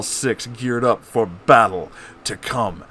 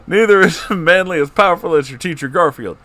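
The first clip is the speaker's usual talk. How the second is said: laughing; 9 semitones higher, 6 dB louder than usual. Acted. Obama voiced, laughing through.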